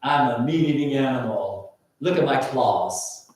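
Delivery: growling pretend predator; snarling beast man. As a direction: growl it like a meat-eater with claws. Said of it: "and he goes".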